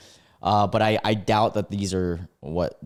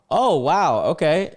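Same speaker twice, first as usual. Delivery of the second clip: surprised; 9 semitones higher, 6 dB louder, slower than usual. Real, not acted. Shocked that she's still down.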